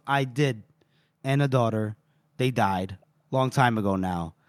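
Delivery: put-on low, soft retelling of an old loss; quietly voiced grief, understated; grave confession.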